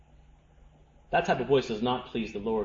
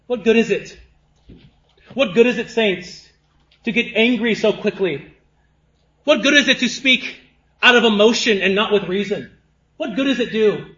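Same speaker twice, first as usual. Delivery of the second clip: raised, forceful pulpit voice; impassioned preaching; 8 semitones higher, 6 dB louder than usual. Real, not acted. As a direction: preach it with conviction, high and punchy.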